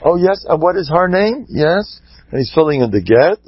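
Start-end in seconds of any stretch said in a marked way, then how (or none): 0.0-2.0 tag. Acted. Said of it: "the Rav is writing".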